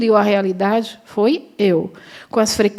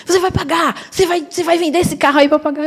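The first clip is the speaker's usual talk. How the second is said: aggressive man; 6 semitones higher, faster than usual. Retold or imitated. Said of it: "fui fazendo assim pra ele".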